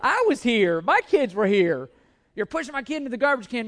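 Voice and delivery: hammed-up outrage at the pushy lady; indignant retort. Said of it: "I'm thinking".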